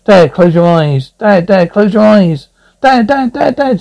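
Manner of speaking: acted child's urgent plea; urgent calling. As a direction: call out for Dad, climbing in pitch. Child calling out to Dad in story.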